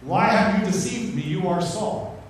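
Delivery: a half-hearted shriek of alarm; mild mock outcry. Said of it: "she shrieks at the top of her lungs".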